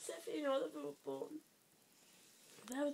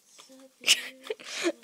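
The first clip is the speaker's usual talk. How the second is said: louder, slow, rising gush over beautiful; loud drawn-out gush; 3 semitones lower, 17 dB louder, slower than usual. Acted. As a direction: gush it out slowly with a rising end. Admiring gift, said twice.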